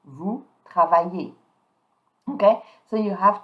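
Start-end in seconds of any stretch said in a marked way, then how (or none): 0.0-1.3 "travaillez" ending in an "ay" sound. Shown as a demonstration. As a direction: model "Vous travaillez" with silent S and Z. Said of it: "the easy is pronounce A".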